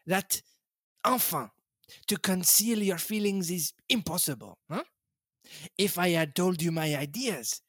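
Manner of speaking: lightly voiced Belgian detective, gently smug; a hint of Poirot, explaining to his friend. Poirot gently teasing Hastings, lightly voiced.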